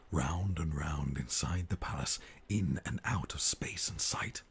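hushed rhyming read; whispered storytelling. Acted. Storyteller whispering the chase to the baby.

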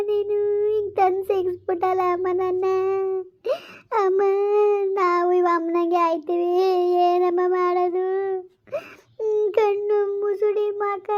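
a hint of a scared daughter pleading; frightened girl. (ಹೆದರಿದ ಹುಡುಗಿಯ ಅಳು ಧ್ವನಿ)

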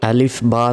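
আলিফ, বা said as Arabic letters; name the letters আলিফ, বা clearly. Shown as a demonstration. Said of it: "অর্থাৎ". (আরবি অক্ষরের নাম)

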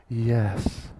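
put-on high, loud girlish yes; high pretend yes. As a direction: squeak out a bashful yes. Player answers in character.

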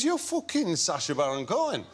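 put-on wrong-sounding northern English accent; imitated northern English bloke, accent off; botched Grimsby accent. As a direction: have a poor go at a Grimsby accent. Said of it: "the accent is totally wrong".

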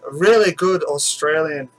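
clumsy attempt at an Australian accent; bad Australian accent. Introducing an Australian viewer's question, bad Australian accent. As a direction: try Australian and miss slightly. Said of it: "That was the worst accent ever".

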